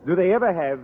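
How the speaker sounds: put-on thick French accent, a charming Frenchman; French accent, courtly and flattering. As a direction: play the suave Parisian teacher, French accent.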